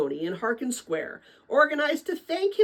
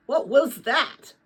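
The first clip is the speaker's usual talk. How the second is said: slow puzzled father; 4 semitones higher, 4 dB louder, slower than usual. Acted. Father asks after being hit.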